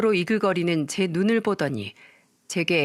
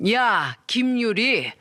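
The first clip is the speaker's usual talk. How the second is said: screaming mother. Acted. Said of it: "소리를 빽 지르더군요".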